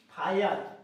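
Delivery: फायर as "faa-yar", ending in "ar"; correct reading of फायर. Shown as a demonstration. Teacher gives an example word, model pronunciation of फायर. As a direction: model फायर with a long "aa-i" glide into "ar". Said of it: "यहाँ पे से क्या पढ़ना है".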